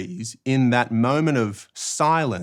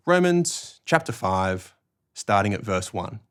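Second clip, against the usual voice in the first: reading announcement. Shown as a demonstration. Reader repeating the passage once pages stop flicking, measured announcement. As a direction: tell them the passage without rushing. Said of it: "say it again".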